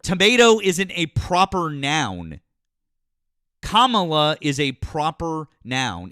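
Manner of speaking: irritated, slow lecture to a friend who mispronounced a name; annoyed lecture. Real, not acted. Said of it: "be all angry about it".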